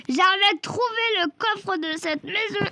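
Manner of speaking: high, slow and deliberate after stumbling; slow, careful restart. Real, not acted. Gamer restarting his sentence after stuttering, slow and careful. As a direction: carefully get the words out at last.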